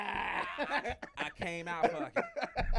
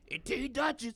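Duchess voice; 3 semitones higher than usual. Retold or imitated. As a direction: rasp it like Duchess. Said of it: "let me, let me do Duchess' voice".

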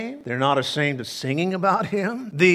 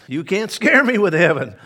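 louder, emphatic repeat; 3 semitones higher, 5 dB louder than usual. Shown as a demonstration. Preacher repeating the line to the congregation, louder and punchier. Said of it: "I say this morning as well".

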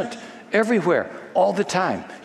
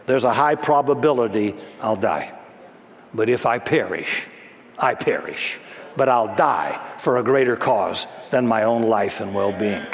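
lower, grave resolve; solemn Esther; 4 semitones lower than usual. Acted. Esther tells Mordecai, lower and solemn. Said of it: "she told Mordecai".

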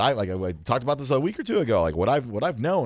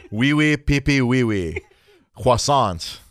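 mock French; 3 dB louder, slower than usual. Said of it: "Now en français".

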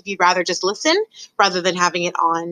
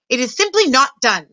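lightly voiced disapproving aunt, pitched up; higher-pitched voice of disapproval; Aunt Florence; 6 semitones higher than usual. A narrator's reading. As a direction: object as a scandalized aunt. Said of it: "came Aunt Florence's voice".

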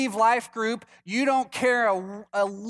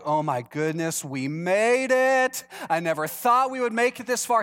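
mock relieved Moses. Moses relieved after crossing.

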